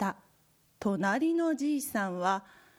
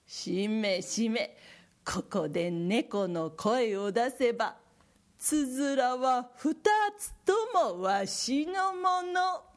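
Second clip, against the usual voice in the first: put-on sly old man; 2 semitones higher than usual. Neighbor plots cat cry.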